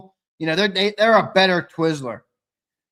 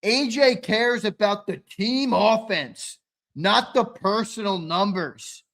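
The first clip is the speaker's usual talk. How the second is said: mocking Twiz; 4 semitones higher, slower than usual. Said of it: "That's what Twizzler said yesterday".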